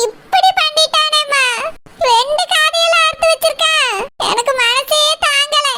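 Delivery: slow, drawn-out wail; anguished lament. Acted. Daughter grieves to her injured mother, anguished lament. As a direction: stretch the words in heartbroken complaint.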